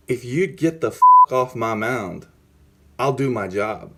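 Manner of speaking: measured, deliberate threat, retold; retold stern warning. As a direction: order the manager away without raising your voice. Retold telling-off of his manager.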